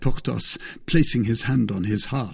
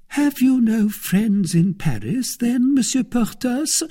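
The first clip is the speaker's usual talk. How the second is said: anxious wife; 14 semitones higher, 4 dB louder than usual. Acted. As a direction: ask the suitor imploringly. Anxious wife questions Porthos.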